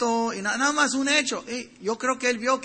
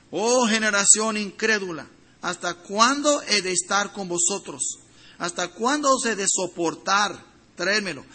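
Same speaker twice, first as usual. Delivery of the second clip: lamenting. Acted. Preacher voicing Jesus' lament.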